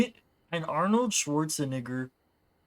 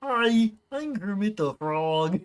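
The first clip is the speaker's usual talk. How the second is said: lightly voiced Kermit the Frog, higher on hi; 3 semitones higher than usual. Shown as a demonstration. Streamer testing his Kermit voice line for chat, light frog voice. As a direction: warm up the frog puppet voice with his catchphrase. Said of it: "I have to use that line to make sure I have the voice right".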